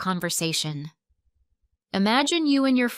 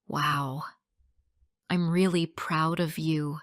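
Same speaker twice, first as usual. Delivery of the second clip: low, softened, tender congratulations; smiling pride; 4 semitones lower, 3 dB quieter than usual. Shown as a demonstration. To friend who passed all exams, warm and smiling. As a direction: say it gently with a proud smile. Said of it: "you smile and say".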